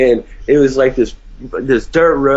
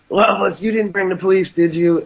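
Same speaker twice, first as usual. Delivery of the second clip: higher-pitched voice of an anxious wife; imitated wife; 6 semitones higher than usual. Wife questioning the friend about police, imitated worry.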